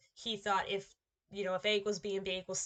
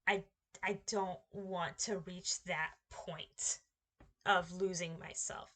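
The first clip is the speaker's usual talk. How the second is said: quoting Gohan; 3 semitones lower, 3 dB quieter, slower than usual. Retold or imitated. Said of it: "he had even warned Cell".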